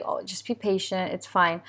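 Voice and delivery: softly retold self-soothing murmur; calming self. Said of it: "trying to calm myself".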